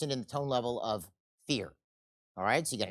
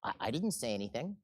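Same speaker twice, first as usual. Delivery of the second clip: fearful denial; 3 semitones lower, 8 dB quieter than usual. Acted. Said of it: "The fellow who's in fear says".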